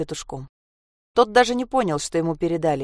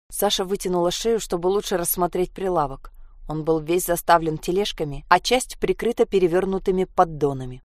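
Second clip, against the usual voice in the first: usual speaking voice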